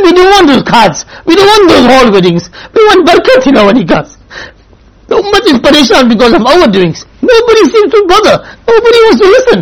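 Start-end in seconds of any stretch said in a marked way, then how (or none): 0.0-4.2 tearful plea. Real, not acted. Urging daughters, near tears. 7.2-9.6 impassioned lament. Real, not acted. Preacher laments the ummah.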